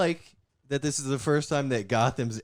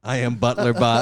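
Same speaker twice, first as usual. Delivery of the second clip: robot butler voice; 5 dB louder than usual. Pretend. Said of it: "Robot Alfred".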